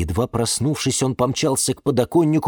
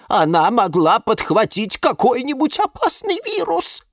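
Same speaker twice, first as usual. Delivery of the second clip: worried warning; 12 semitones higher than usual. Acted. Rosalia warns of a virus.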